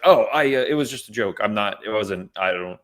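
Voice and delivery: mock a caught-out man fumbling for words; imitating stammering. A dad, confronted about his remark, stammering in mock panic. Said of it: "he's, like, stammering over himself".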